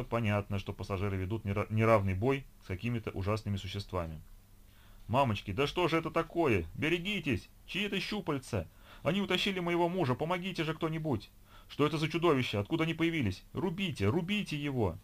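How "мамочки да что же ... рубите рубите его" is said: terrified screaming. A narrator's reading. Woman screams during monster attack.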